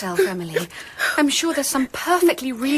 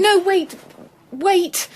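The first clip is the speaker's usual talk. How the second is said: higher, louder urgent call; quick raised plea to wait; calling her back; 7 semitones higher, 4 dB louder, much slower than usual. Acted. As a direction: stop her before she goes. Calls maid back as she leaves.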